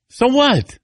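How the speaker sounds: high, defiant shrug. Real, not acted. Dad defends his crying, high and defiant. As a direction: toss it off, high and daring. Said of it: "I, I cry".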